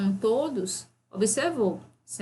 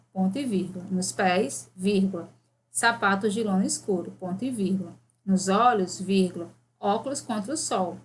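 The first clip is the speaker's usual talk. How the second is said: dictating. Shown as a demonstration. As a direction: dictate it clearly to the class. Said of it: "Aí você vai colocar".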